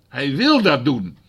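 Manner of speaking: "wil" slow and emphatic; stress on wil. Shown as a demonstration.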